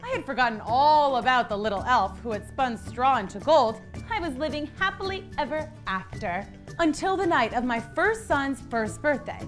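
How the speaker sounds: usual speaking voice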